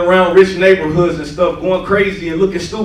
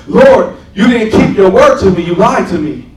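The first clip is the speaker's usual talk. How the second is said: retold bawling; 3 semitones higher, 6 dB louder than usual. Dreamer accuses the Lord over his unsaved dad, retold bawling. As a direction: re-enact a wounded cry without real tears. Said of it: "I'm like, I'm bawling".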